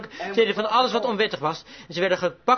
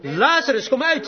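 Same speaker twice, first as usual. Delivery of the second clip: raised, commanding preacher's call; retold call; 5 semitones higher, 4 dB louder than usual. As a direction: call out to the dead man, higher pitched. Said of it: "daar stond en riep". (uitroepend, hoger bevel)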